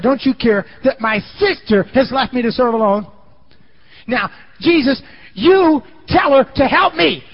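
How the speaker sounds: high, loud, stretched accusation; furious demand. Retold or imitated. Martha storming out to confront Jesus, high loud furious demand. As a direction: confront him indignantly.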